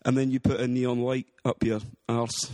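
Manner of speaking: light put-on Scottish accent, rolling the r's; casual chat in a hammed-up Scottish accent. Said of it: "a Scottish accent".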